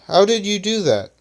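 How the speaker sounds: high-pitched puzzled question; wondering. A narrator's reading. Flyer quizzes Electronic on the fire, wondering. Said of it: "wondering what Electronic isn't telling".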